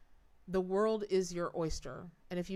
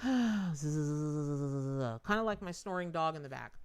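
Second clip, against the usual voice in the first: sleepy sigh; 3 semitones lower, slower than usual. Pretend. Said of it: "I just wanna go".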